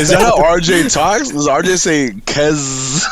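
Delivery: laughing through the question; giggly, amused question. Real, not acted. Host laughs asking if RJ talks that way.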